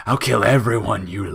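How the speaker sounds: loud high shriek; threatening scream. A narrator's reading. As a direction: explode into the threat.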